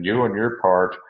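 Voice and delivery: "you" lifted above "and your part"; emphatic "you". Retold or imitated. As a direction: put the weight on "you". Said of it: "he makes it emphatic again".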